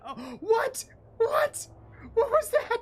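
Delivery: sudden high startled what; jolted, pitch shooting up; real startle; surprised. Real, not acted. Startled by something on screen.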